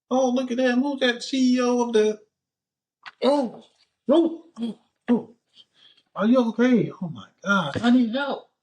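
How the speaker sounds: high-pitched mock panic; acted freak-out. Man fakes alarm over a choking girl, high hammed-up panic. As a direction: pitch way up, playing alarmed for the camera. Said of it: "I'm freaking out. That's what, that's".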